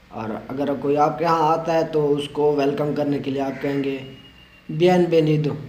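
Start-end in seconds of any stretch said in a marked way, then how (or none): 4.7-5.6 "बियनवेनिदो" with the वे said as "बे". Shown as a demonstration. Teacher models the greeting for guests, v sounded as B. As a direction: sound both consonants of "बियनवेनिदो" as B. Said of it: "वी भी बी की आवाज़ दे रहा है".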